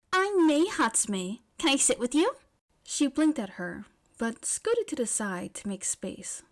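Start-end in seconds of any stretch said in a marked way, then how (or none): 0.1-2.4 eager repeat. A narrator's reading. May repeating her name to Yaoyorozu, high and loud. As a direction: say it again, bigger.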